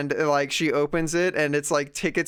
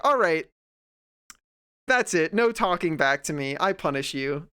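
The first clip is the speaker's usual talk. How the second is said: mock stern parent; 2 semitones higher than usual. Mocking the strict parent.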